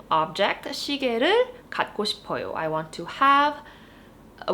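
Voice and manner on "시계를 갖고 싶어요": fast Korean sentence; fast repeat. Shown as a demonstration. Teacher repeating the example sentence quickly. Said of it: "let's look at this sentence".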